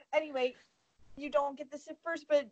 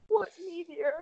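"What" pitched higher, in disbelief; incredulous repeat; 5 semitones higher than usual. Real, not acted. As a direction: ask again, baffled this time.

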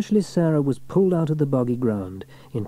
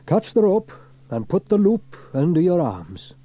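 louder, higher instructing call; Fireman Sam; 8 semitones higher, 6 dB louder than usual. A narrator's reading. Sam instructs Sarah in the bog, calling out. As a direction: clear rescue instructions. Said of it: "said Fireman Sam".

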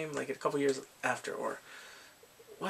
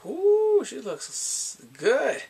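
high excited ooh; 9 semitones higher, 7 dB louder, much slower than usual. Real, not acted. Admiring her in the dress.

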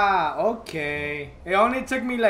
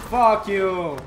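angry snap; 2 semitones lower, 6 dB louder than usual. Real, not acted. Raging at the game.

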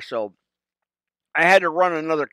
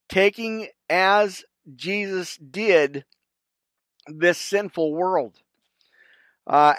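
prayer recitation. Real, not acted. Pastor leading viewers through the Serenity Prayer, reverent. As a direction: recite each phrase with reverent pauses.

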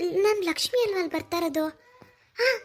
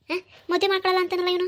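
high, rushed outburst of exasperation; indignant disbelief; 5 semitones higher, 3 dB louder, faster than usual. Acted. Mother outraged that he refuses to marry, indignant. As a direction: blurt it out fast and high, incredulous.

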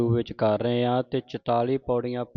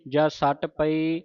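scripture recitation. Shown as a demonstration.

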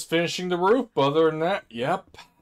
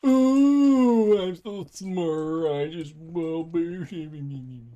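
sarcastic boast; 3 semitones higher, 5 dB louder, much slower than usual. Pretend. Mock boast about smartness.

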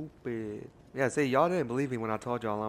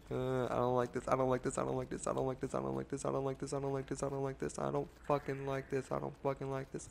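softer, anxious repeated muttering; nervous; 3 semitones higher, 4 dB quieter, faster than usual. Real, not acted. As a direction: mutter it to yourself, uneasy. Scared, repeating under breath.

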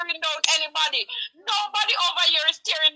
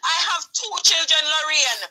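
tearful shout. Real, not acted. Mother pleads with Lorraine about her two children, shouting through tears. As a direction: cry it out to make her listen.

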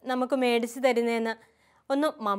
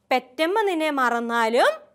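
slow model line for repeating; teaching recitation; slower than usual. Shown as a demonstration. Sister giving children a verse to repeat, slow recitation. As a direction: say it slowly so the class can echo. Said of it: "sister പറഞ്ഞു തരാം".

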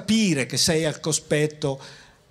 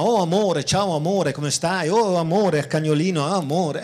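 mock gushing endearments. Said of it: "quelli che dicono "ti amo" a tutti".

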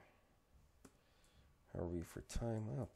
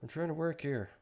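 grumpy grumble; 8 semitones higher, 4 dB louder than usual. Retold or imitated. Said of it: "it's like".

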